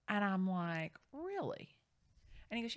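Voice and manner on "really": imitating wide-eyed surprise; stunned really. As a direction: let the disbelief lift it. Reacting to swinger party news.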